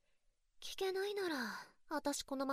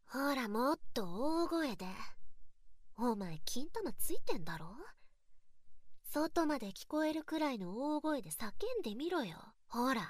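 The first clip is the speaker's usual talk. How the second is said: louder commanding taunt; 4 dB louder than usual. Acted. Ordering him to shout louder.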